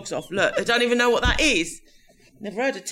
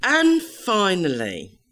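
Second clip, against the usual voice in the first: newsreader voice; much slower than usual. Pretend. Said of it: "the light-hearted story at the end of the news".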